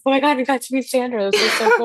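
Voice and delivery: high, gushing squeal of a starstruck fan; mock fangirl excitement. Guest recalling meeting favorite author, excited. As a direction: gush like you just met your idol. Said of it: "we're like".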